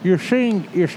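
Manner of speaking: talking around a cigar; cigar in mouth. Real, not acted. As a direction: mouth half full with a cigar. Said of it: "Sorry, I had my cigar in my mouth and started talking".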